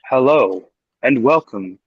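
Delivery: AI voice. Shown as a demonstration. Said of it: "sound like one of those A I things".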